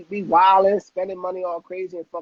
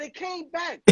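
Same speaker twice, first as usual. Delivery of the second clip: excited; 10 semitones higher, 6 dB quieter, slower than usual. Retold or imitated. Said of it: "He said".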